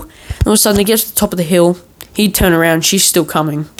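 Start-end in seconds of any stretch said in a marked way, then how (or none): none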